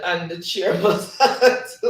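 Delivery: slow, breaking into a laugh while reading; amused, laughing read-out. Real, not acted. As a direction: laugh through the words, drawn out. Laughs reading chat comment.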